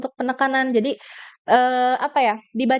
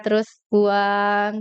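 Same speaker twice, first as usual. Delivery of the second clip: calm exhale cue; 3 semitones lower, much slower than usual. Shown as a demonstration. Coach reminding the audience to exhale slowly while speaking. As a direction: let the breath out slowly. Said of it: "sambil atur napasnya".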